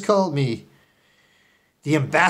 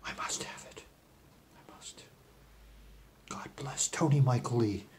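soft unvoiced whisper; 4 semitones lower, 12 dB quieter than usual. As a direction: breathe it out with longing. Secretive longing.

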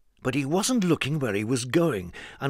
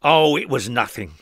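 modest; 4 dB louder than usual. Acted. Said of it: "remarked Mister Strong modestly".

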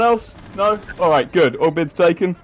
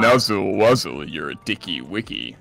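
put-on slow, lower cutesy uwu baby talk; 5 semitones lower, slower than usual. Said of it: "I have to speak uwu for one minute".

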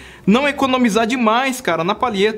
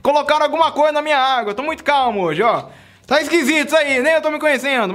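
higher, fast, amused self-mockery; mock surprise at own calm; 6 semitones higher than usual. Real, not acted. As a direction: joke to viewers about sounding so calm, higher and quick. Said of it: "eu tô falando tão calmo".

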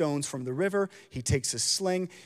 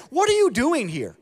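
angry big brothers; 9 semitones higher, 4 dB louder than usual. Retold or imitated. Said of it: "They say".

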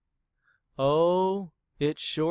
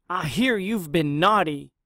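frowning trainer; 3 semitones higher, 4 dB louder than usual. Acted. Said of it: "she said with a frown".

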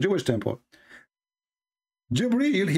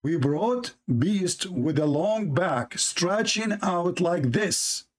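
slow reading; slower than usual. Shown as a demonstration. Rereading the hadith slowly.

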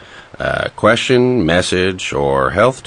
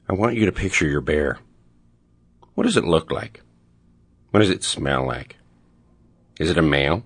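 measured, soothing meditation guide voice; guided meditation; 3 semitones lower, 3 dB quieter than usual. Acted. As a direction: lead them gently through it, in full earnest. Leads a mock guided meditation.

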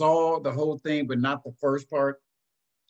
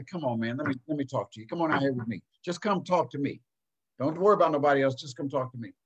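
gentle way; faster than usual. Shown as a demonstration. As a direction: draw him aside kindly. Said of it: "put my arm around him and say".

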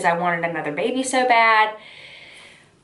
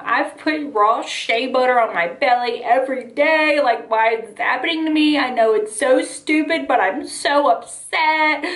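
retold sobbing plea; 3 semitones higher than usual. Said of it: "I'm sobbing, and I'm like".

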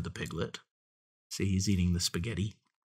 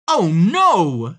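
loud, high cry of dismay; storybook piglet crying out in alarm; mock scream; 8 semitones higher, 12 dB louder than usual. A narrator's reading. Piglet faces the hungry fox, mock screaming. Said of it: "screamed the piglet".

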